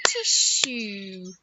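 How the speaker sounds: "Tissue" as two long separate beats; one clap for each half of "Tissue"; clapped-out syllables. Shown as a demonstration. Teacher repeating for children to clap, "Tissue" split in two. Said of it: "Can we clap out tissues?".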